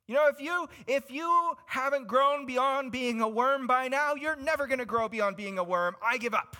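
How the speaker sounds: loud, high, exasperated outburst; fed-up God. Retold or imitated. Imagined God rejecting his people, loudly fed up. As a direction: throw up your hands and yell. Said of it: "How terrible would it be if God's like".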